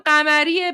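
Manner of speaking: قمریه starting on a throaty q; Persian pronunciation. Shown as a demonstration. Proving the point by surname, قمریه with throaty q. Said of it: "به زبون فارسی قمری".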